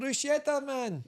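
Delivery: posh voice. Pretend. Mock posh pronunciation.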